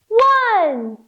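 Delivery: high, excited count; bright excited one. Shown as a demonstration. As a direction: call out the clap count. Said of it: "one big clap".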